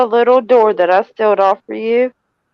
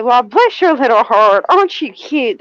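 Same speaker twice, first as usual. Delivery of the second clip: sarcastic. Shown as a demonstration. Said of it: "I'm being sarcastic as hell".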